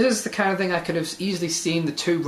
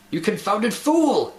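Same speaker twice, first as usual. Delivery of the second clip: a raised, slowed, angry roar, pitched higher; roaring at the stranger; 5 semitones higher, slower than usual. A narrator's reading. Ship's officer roaring at a man in the fog, angry shout. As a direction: bellow it at the man through the fog. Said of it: "he roared".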